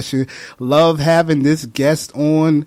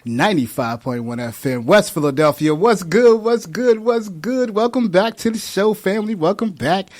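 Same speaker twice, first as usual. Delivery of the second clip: upbeat host greeting, rising higher; radio host welcome; 3 semitones higher than usual. Acted. Host welcoming listeners to the show, upbeat radio greeting. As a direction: hype up the listeners.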